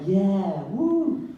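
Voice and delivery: mock audience cheer.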